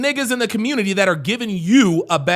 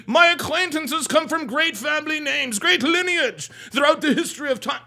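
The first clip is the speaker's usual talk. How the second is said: higher mock-proper recital; fake proper talk; 5 semitones higher than usual. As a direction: mimic a pompous, correct speaker. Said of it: "fake ass proper talking ass".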